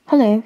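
"Hello" gezegd met een U, niet met een E; "Hello" uitgesproken als hullo. A narrator's reading. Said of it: "he said, with a U and not an E".

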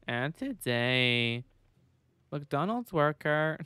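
slow, drawn-out mock creepy narrator; a lightly done creepy YouTuber intro; creepy video narrator. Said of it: "that guy who does those creepy videos".

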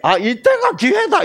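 very high, comic cry of opportunity; mock eagerness. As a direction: imitate a gullible man seizing his chance. Mocking men who fall for it.

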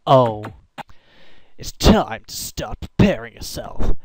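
loud startled warning. Real, not acted. Game alarm reaction.

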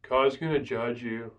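flat, uninterested warning; droning prophet who wants nobody saved; bored monotone. Retold or imitated. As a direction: say it like you don't care if they listen.

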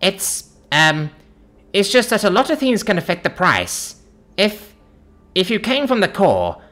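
high, flustered shop woman; panicking. A narrator's reading. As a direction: plead your case in a high-pitched panic. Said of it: "Panicking, she answers".

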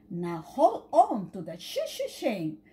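quacking. Acted. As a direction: quack it like a bossy big sister. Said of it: "quacked Polly".

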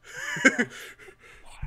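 high breathy burst of laughter. Real, not acted. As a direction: let out an airy high laugh. Host laughs after German joke.

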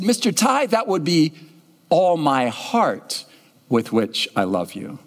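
put-on a child correcting herself sweetly; little girl voice. Girl answering her mom's coaching, slow and childlike. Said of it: "She said".

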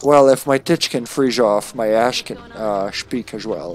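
lightly slurred Scottish movie-star impression; mock Scottish gentleman; Sean Connery. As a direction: turn the s sounds into sh. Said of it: "Sean Connery accent".

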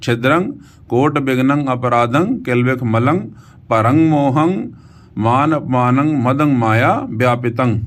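careful phrase-by-phrase model reading, slowed down; pronunciation demonstration. Shown as a demonstration. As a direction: sound out each syllable of "ਛਿਦਰੰ" and on through "ਵਿਆਪਿਤੰ". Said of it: "ਇਸ ਤਰੀਕੇ ਦੇ ਨਾਲ ਉਚਾਰਨ".

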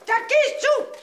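drawn-out high yell of Hurry!; shout. Acted. Diva ordering her assistant to hurry, high drawn-out yell. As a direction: bark the order, stretching it slowly.

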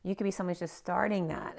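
strained, tired voice that's giving out; losing voice. Real, not acted. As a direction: speak with a voice that's going. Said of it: "I'm losing my voice".

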